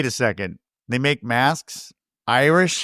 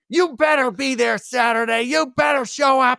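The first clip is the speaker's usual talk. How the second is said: a hint of a pushy wife, raised pitch; mock stern demand; 8 semitones higher than usual. Husband quoting his wife's demand, mildly mocking. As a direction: lightly mimic the demanding wife.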